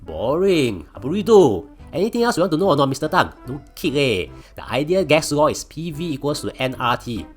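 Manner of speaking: high, loud smug brat; cocky taunting. Acted. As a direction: show off to the teacher. Arrogant genius taunting teacher.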